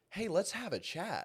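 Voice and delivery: a hint of a stern husband; mock stern husband. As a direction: summon the wife for a talk. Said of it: "I'm gonna go".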